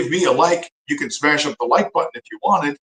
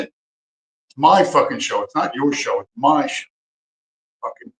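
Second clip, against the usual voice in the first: slow angry emphasis. Real, not acted. To the clip that cut in, slow angry insistence. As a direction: drag each word out, angry.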